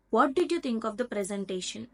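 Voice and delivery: a what-question that comes down on "presentation"; falling intonation. Shown as a demonstration. Teacher demonstrating a what-question, falling intonation on "presentation". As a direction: let the pitch drop towards "presentation". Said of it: "pitch is lowering at the end".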